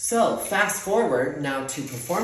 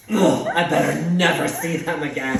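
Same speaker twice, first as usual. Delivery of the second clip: fuming mom; 6 dB louder than usual. Retold or imitated. Acts out mom still fuming.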